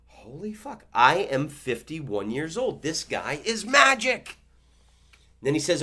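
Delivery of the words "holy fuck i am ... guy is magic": amazed. Real, not acted. Shocked he guessed age.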